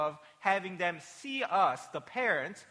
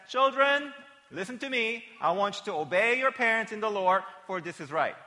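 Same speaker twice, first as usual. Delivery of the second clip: higher, louder apostle's appeal; Paul addressing children; 6 semitones higher, 5 dB louder than usual. Acted. Paul speaking to children in the worship service, emphatic appeal. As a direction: address the children directly, high and emphatic at first. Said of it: "And so Paul says".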